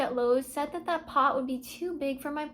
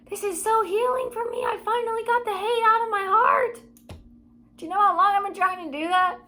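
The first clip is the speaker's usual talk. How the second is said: elated; 5 semitones higher than usual. Real, not acted. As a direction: let the relief lift your voice. Elated release.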